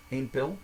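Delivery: pil starting almost like "bil"; P near B. Shown as a demonstration. Teacher repeats after the rule, P near B. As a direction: soften the P of pil towards a B. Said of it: "The P almost sounds like a B".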